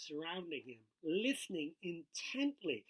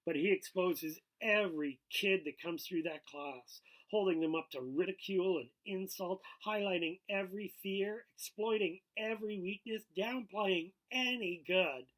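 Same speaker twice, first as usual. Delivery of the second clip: louder, mounting indignation; angry; 3 semitones higher, 6 dB louder than usual. Acted. Chill defending his prank to Sean, mild anger. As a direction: build the accusation line by line, a touch heated. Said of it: "Chill said angrily".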